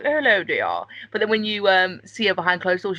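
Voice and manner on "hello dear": put-on lightly posh English accent; a hint of a posh royal greeting; posh Queen accent. Mocking the Queen in person, light posh English accent. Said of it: "she has a really posh accent".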